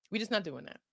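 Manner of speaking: put-on quiet final word to the girls. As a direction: drop it down, matter of fact.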